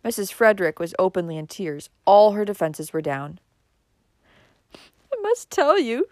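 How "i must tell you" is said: high, slow tearful confession; sobbing. A narrator's reading. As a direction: sob it out slowly. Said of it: "she sobbed".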